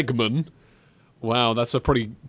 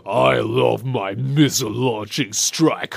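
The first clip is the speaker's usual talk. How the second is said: game villain voice; 3 semitones lower, slower than usual. Retold or imitated. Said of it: "awkward out of context".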